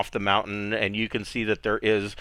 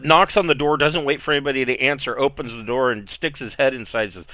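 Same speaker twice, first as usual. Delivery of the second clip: ordinary delivery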